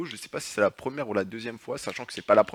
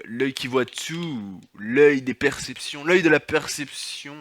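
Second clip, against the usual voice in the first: slow, solemn oracle intoning; mock mystic voice; slower than usual. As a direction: intone it like a hammed-up prophet. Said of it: "Je sais pas pourquoi je parle comme ça". (voix mystique pompeuse, lente et solennelle)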